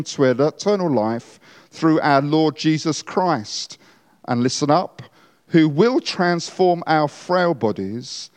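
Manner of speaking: hushed graveside prayer. Shown as a demonstration. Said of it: "this is what I will say".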